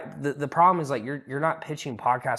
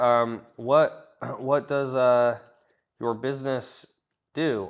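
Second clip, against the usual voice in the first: halting, filler-laden question; awkward, unsure asking of what does your business do; hesitant version; 6 dB louder, much slower than usual. Shown as a demonstration. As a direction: stumble through it with ums and a throat clear. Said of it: "Or you're like, you're like".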